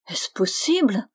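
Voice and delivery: whispered disbelief, voice rising on the word; stunned whisper. A narrator's reading. Stunned friar repeating himself in disbelief, whispered. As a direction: whisper it in amazement. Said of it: "répétait le moine convers".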